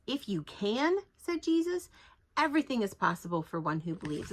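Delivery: a sarcastic tilt on if you can; Jesus answering the father, mildly sarcastic. Retold or imitated. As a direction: say it with a dry, mocking edge. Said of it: "sarcastic tilt to it".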